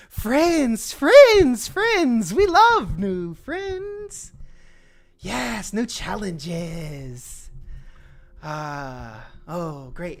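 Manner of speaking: very high, loud, slow bug chorus; chittering insect voices. Acted. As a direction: gush over new friends like giddy ants. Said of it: "chittering voices speak up".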